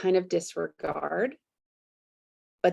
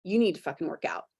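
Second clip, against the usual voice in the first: harsh inner voice; faster than usual. Retold or imitated. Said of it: "the other voice is like".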